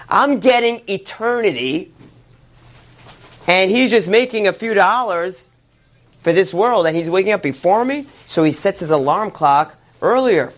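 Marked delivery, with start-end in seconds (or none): 0.1-8.1 indignant. Acted. Scholar indignant at neighbor rising earlier.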